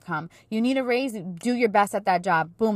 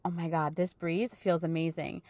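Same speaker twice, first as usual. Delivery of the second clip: relieved sigh; 3 semitones lower, 6 dB quieter than usual. Retold or imitated. Walking out into cool breeze.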